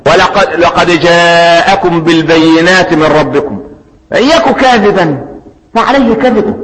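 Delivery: slow, melodic tajweed chant of the verse; slow measured Quranic chant; Quran recitation. Acted. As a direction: draw each word out as in recitation.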